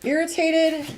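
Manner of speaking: mild irritated venting; irritated rant. Shown as a demonstration. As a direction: snap it out like you're fed up. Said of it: "negative self-talk".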